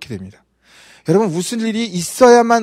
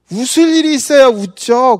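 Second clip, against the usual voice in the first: raised, louder imitation of indignation; annoyed comeback, acted out; mock angry retort; 6 semitones higher, 5 dB louder than usual. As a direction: imitate someone snapping back, high and loud. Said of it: "그러면서 막 화를 내는 거예요".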